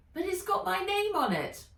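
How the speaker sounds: put-on high, pleading girl voice; pleading Nat. Nat pleading with the elf, high. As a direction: beg to have the book. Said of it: "Nat pleading".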